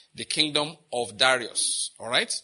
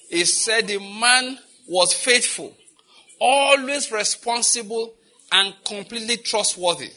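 high, slow, each phrase weighted; slow emphatic reading; 6 semitones higher, 5 dB louder, slower than usual. Shown as a demonstration. Pastor reading verse to the congregation, slow and emphatic. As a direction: press every phrase home, slowly. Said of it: "New Living Translation said it like this".

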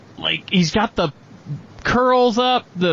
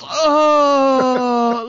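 long, high comic groan; imitated straining groan; 4 semitones higher, 4 dB louder than usual. Imitating a man in the outhouse, mock straining groan. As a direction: strain out a drawn-out "oh". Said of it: "you watch him poop".

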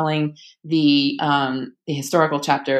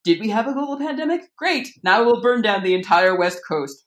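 high, brisk sarcastic cheer, dropping at the end; faux-upbeat, sarcastic patter; mock cheerful; 4 semitones higher than usual. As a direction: play disaster as breezy good news. Sarcastic voicing of the year's disasters.

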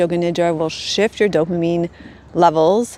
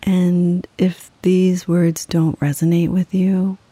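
guided meditation. Acted. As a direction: guide them gently into rest, unhurried and level.

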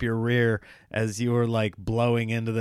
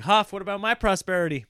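whiny barista; 4 semitones higher than usual. Retold or imitated.

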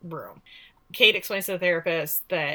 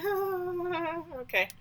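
taken aback; 11 semitones higher, 7 dB quieter, much slower than usual. Retold or imitated. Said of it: "And I was like".

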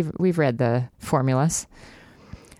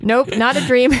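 put-on high young woman voice; 8 semitones higher, 5 dB louder than usual. Izzy voiced in read scene.

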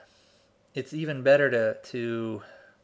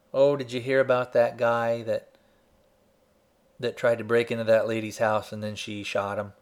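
tossed-off gossipy retelling, a bit louder; casual gossip; 4 dB louder than usual. Shown as a demonstration. Teacher shows the careless way to tell a story, casual gossip. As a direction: chat it over like neighbourhood gossip. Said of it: "you could tell the story this way".

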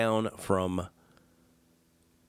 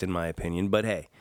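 ordinary talk, nothing marked

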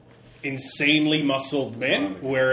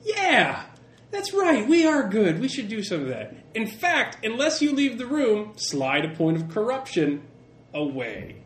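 excited cheering; 6 semitones higher than usual. Retold or imitated. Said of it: "all of you were like".

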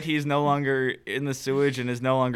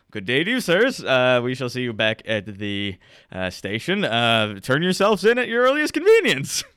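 mock-polite farewell, pitched up at the end; retreating guard; 4 dB louder than usual. Guards back away from the fight, calling politely.

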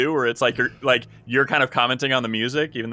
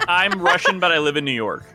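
put-on Russian accent; 4 semitones higher than usual. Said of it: "It's not the worst, uh, Russian accent".

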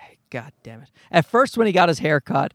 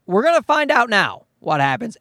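normal talking voice

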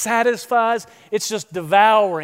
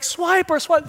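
put-on kids yelling; 9 semitones higher than usual. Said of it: "They're like".

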